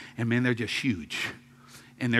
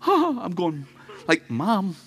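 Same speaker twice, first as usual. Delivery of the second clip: alarmed; 6 semitones higher, slower than usual. Retold or imitated. Alarmed call to mother.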